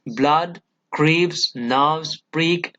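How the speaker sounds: "Blood, craves, nerves, break", each separately stressed; stressed words singled out. Shown as a demonstration. Teacher picks out the important words, each stressed. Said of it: "these are given".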